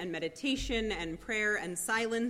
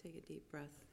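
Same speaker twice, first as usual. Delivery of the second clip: soft spa whisper; 3 semitones lower, 19 dB quieter than usual. Acted. Closing the meditation.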